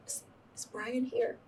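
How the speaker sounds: soft, high, halting retold question; small, slow, tearful imitation; holding back tears. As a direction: act out asking through held-in tears. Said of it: "I'm still trying to cry".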